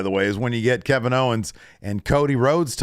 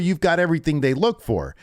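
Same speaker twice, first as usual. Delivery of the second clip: mock Cena taunting; 6 semitones higher than usual. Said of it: "he says".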